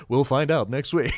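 hammed-up episode cliffhanger; bad teaser voice. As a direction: tease next week like a cheesy promo. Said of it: "that's my bad teaser voice".

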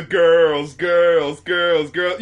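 put-on "girls" repeated slowly, each falling; slow drawn-out "girls". Shown as a demonstration. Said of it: "to quote another song".

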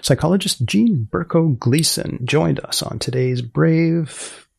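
measured announcer read to listeners; podcast outro read. Acted. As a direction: wrap up the show like a radio host.

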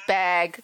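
"bag" in an up-North accent; Northern-style "bag"; Northern pronunciation. Shown as a demonstration. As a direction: say "bag" with a Minnesota vowel, like "beg". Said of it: "I say bag".

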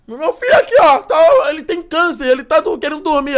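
put-on complaining old woman. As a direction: plead shrilly as an upset elderly mother. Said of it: "Aí vem ela".

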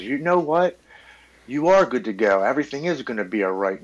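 mock-friendly inner voice of addiction. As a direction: sweet-talk him like a tempter. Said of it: "my mental illness and addiction steps in and says".

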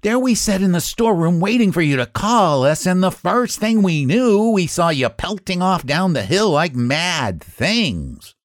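high, aggrieved, puffed-out complaint; panting. A narrator's reading. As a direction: grumble as if winded from chasing. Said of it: "panted the cabbages".

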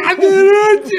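high wailing cry of cadeirante. Retold or imitated. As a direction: wail it out, drunk and weeping. Chorando no carro, gritando. (grito chorando, bem agudo)

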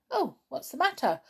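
high little mouse voice; mouse character. A narrator's reading. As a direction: ask as a small startled mouse. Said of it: "asked the mouse".

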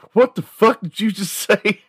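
very high, incredulous comic demand; mock outrage. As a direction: act out a stranger's high-pitched outrage. Acted outraged reply to an insult.

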